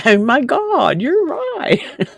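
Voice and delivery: laughing, voice leaping high on the repeat; laughing realization. Retold or imitated. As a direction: burst out laughing as it sinks in. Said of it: "And it's like".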